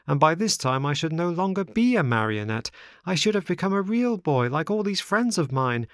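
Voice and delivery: put-on high-pitched boyish puppet lamenting his mistakes; regretful marionette. Pinocchio's long regretful speech.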